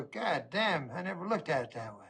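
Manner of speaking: quiet revelation. Acted. Acted awed reply to friend.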